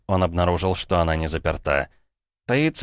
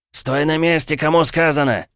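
higher, louder barked order; hasty shout; 9 semitones higher, 4 dB louder than usual. Acted. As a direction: yell it fast to freeze him. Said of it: "спешно выкрикнул мужик".

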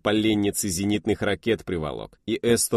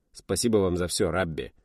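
sincere thanks. Acted. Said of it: "сказал я совершенно искренне".

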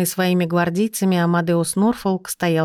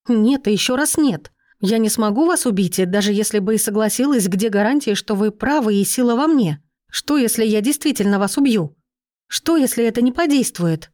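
higher, agitated pleading; voice breaking; 4 semitones higher than usual. Acted. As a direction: plead on the edge of panic. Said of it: "Голос предательски сорвался от волнения".

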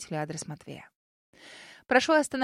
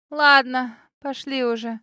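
put-on nervous girl voice; 3 semitones higher, 7 dB louder, slower than usual. A narrator's reading.

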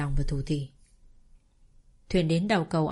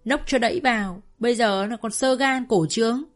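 fast, louder spiteful rant; angry rant; 3 semitones higher, 3 dB louder than usual. Acted. Mother rants to her daughter about her drunk husband, fast and a little louder. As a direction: spit it out quickly in disgust.

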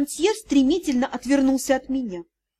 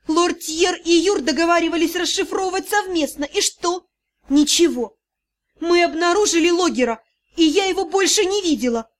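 heated, rising accusation; angry outburst; 3 semitones higher than usual. Acted. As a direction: let it all spill out in anger. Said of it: "Поздно, я сорвалась". (гневный срыв)

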